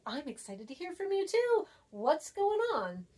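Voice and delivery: mildly acted excitement; excited reply. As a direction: sound glad to hear from them. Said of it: "Exclamation points makes me feel good".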